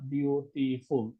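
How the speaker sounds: বিউটিফুল broken into three separate syllables. Shown as a demonstration. Teacher counting syllables for students, বিউটিফুল said syllable by syllable. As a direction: say বিউটিফুল in three parts, biu-ti-ful. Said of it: "তিনটা syllable আছে এখানে".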